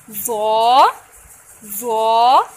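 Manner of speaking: ज़ो said short and loud, not जोए; short Arabic letter. Shown as a demonstration. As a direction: clip ज़ो, one alif. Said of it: "ज़ोआ पढ़ना है और इसको लंबा नहीं".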